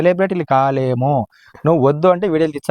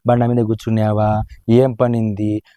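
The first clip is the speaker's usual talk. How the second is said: mocking her words; 4 semitones lower than usual. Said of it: "ఎప్పుడు అనకూడదు ఆ మాట".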